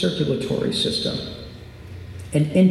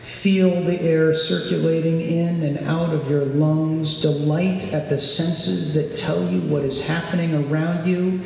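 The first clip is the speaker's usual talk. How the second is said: guided meditation. Acted. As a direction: guide them into calm. Leads a meditation.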